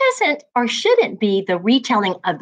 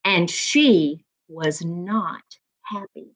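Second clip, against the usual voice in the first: lively read-aloud storytelling voice; story narration. A narrator's reading. Teacher reading to young class, lively storybook narration. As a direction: read it to the class like a picture book.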